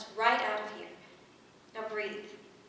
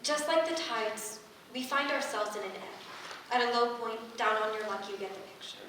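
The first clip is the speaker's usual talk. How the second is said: calm guiding voice. Acted. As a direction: draw each phrase out gently. Guiding partner through breathing exercise.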